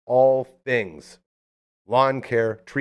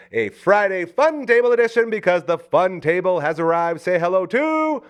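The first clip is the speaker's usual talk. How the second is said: big high hype intro, slowing down; excited announcer; 10 semitones higher, 4 dB louder than usual. Real, not acted. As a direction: build up and announce her grandly. Announcing the Fun Table guest.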